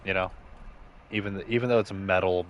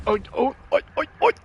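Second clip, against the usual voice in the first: excited oh oh; 8 dB louder, much faster than usual. Real, not acted. Excited in game.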